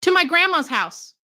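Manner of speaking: a hint of a sweet child answering; little girl voice. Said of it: "The girl said".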